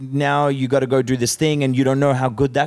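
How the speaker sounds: chipper advice-giver. Acted. Someone telling a person who lost his bag to look up, mildly mock-cheery. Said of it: "it can be hard to be told".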